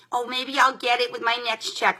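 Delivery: a hint of her mother's voice; mild imitation of mother. Mother musing about buying Quench, lightly imitated. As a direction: lightly mimic her mom. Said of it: "That's how she talks".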